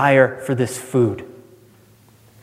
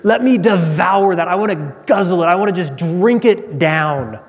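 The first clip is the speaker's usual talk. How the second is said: ravenous; 2 semitones higher than usual. Acted. Esau wanting to guzzle the stew, ravenous. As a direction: demand it hungrily, slowing on the last words. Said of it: "speaks more to devour, to gobble".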